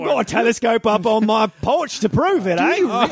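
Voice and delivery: put-on lightly done Australian bloke accent, mate; a hint of a laid-back Australian neighbour; put-on Aussie accent. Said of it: "What do you think that accent is?".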